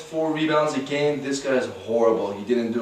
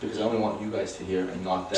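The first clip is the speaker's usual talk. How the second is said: hushed and much softer; whispering on the phone; 6 semitones lower, 9 dB quieter than usual. Real, not acted. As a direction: say it low, just for us. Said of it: "Speak up because you're telling them".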